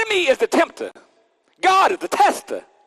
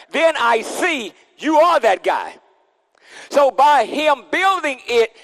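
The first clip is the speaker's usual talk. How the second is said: preaching shout; 4 semitones higher, slower than usual. Acted. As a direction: build it up and shout it.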